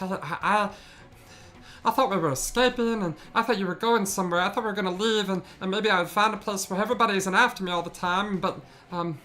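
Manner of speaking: high, small, trembling goblin voice pitched well up; a frightened goblin losing hope; timid little goblin, tearful. Acted. Goblin to the party, pitched high and lost.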